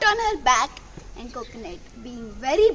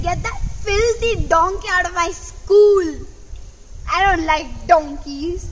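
a gruff, louder teacher ordering the donkey out; angry teacher; 4 dB louder than usual. Acted. Teacher ordering the donkey out of school, louder and angry. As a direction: spit out his disgust at the donkey. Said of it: "He said".

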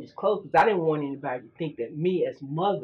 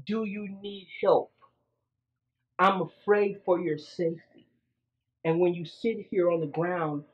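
soft, gentle, grandmotherly concern, faster at the end; loving tone; 3 dB quieter than usual. Retold or imitated. Grandmother to a girl sitting in the road, loving and gentle. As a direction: coax her like a worried grandmother or auntie. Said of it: "I said it in a loving tone".

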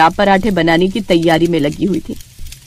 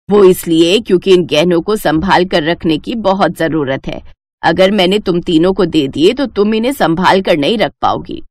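lower, measured mother-in-law voice; stern mother-in-law; 5 semitones lower than usual. Acted. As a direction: speak as the wise old mother-in-law, firm and knowing. (धीमी, गंभीर सास की आवाज़)

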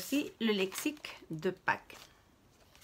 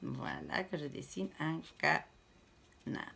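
doux et lent en dessinant; 4 semitones lower, 7 dB quieter, slower than usual. Real, not acted. Commente son dessin.

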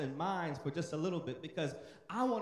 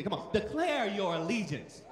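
forceful declaration; 4 dB louder than usual. Shown as a demonstration. Preacher urging congregation to repeat, loud and forceful. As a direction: declare it loud like you mean it. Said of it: "say it like you mean it".

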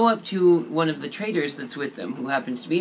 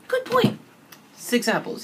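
much higher, bright little gnome squeak. Retold or imitated. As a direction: pitch way up to play the gnome. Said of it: "And the gnome was like".

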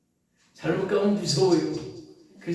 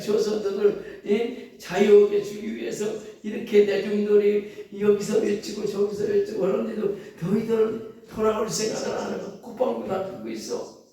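raised, louder scolding voice of God; God's voice; 4 semitones higher, 3 dB louder than usual. Acted. Preacher voicing God scolding the people, loud. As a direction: voice God rebuking his people. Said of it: "하나님 마음이 얼마나 아프겠어요".

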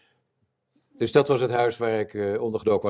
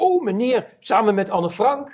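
put-on much higher, impressed young woman; awed girl; 10 semitones higher, 3 dB louder than usual. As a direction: play the stunned desk girl gasping in awe. Mimics awed desk girl. (verbaasd meisje aan de balie, veel hoger en ontzag)

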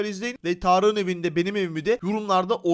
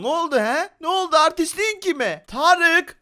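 mock angry; 8 semitones higher, 5 dB louder, slower than usual. Angry at being trolled.

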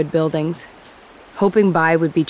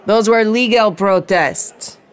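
louder, higher, slow indignant protest; indignant shout; 5 semitones higher, 5 dB louder, slower than usual. Acted. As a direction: insist hotly, slowing down. Heated bar argument.

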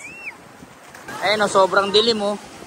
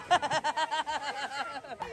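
long, softer run of laughing; laughter; 2 semitones lower, 11 dB quieter than usual. Real, not acted. Laughing with friends after the warning, drawn-out laugh.

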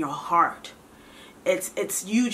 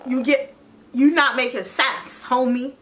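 higher, half-laughing sassy comeback; mock fighting mode; 4 semitones higher than usual. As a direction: push back at God like an annoyed friend, playfully. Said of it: "I might have went into fighting mode".

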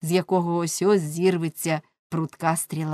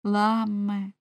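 tender call. Acted. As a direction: say his name to soothe him. Вона обняла його. (ніжно, лагідно)

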